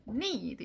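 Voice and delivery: "need" weighted, with a lengthened vowel; strong, longish "need"; stressed need. Shown as a demonstration. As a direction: lean on the "ee" in "need". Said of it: "이렇게 하는 거예요".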